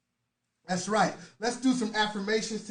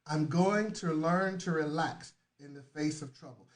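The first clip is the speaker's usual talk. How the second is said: low, soft, soothing delivery; calm reassurance; 4 semitones lower, 5 dB quieter than usual. Real, not acted. Coach telling frantic listeners to relax, calm and reassuring. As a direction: settle them down, low and gentle.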